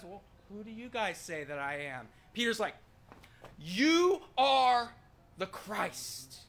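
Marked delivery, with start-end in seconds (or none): 0.0-2.1 softer, casual asking; Jesus, understated question. Acted. Jesus finally asking the disciples, understated soft question. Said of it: "when Jesus finally says". 3.6-6.4 loud high start, dropping on the last words; Peter, eager proclamation. Acted. Peter chomping at the bit to answer, eager burst. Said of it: "he's ready. He's chomping at the bit".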